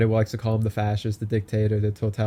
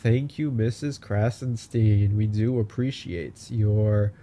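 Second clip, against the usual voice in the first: sarcastic thanks; slower than usual. Acted.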